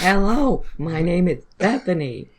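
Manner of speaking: flat robotic greeting. Pretend. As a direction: speak like a machine. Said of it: "Almost got the robot voice".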